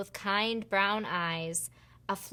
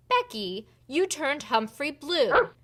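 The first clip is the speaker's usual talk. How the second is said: scolding reveal; 6 semitones higher, 4 dB louder than usual. Acted. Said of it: "said Natalie".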